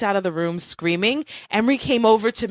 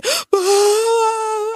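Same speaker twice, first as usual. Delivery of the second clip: sharp high mock gasp of a crying child; imitated sobbing gasp; 4 dB louder than usual. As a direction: gasp like a kid sobbing hard. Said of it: "he was crying so hard".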